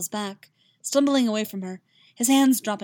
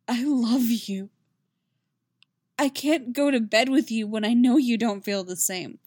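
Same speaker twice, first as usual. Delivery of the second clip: shaky confession; 2 semitones higher, 4 dB louder than usual. A narrator's reading. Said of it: "his voice just as uneven".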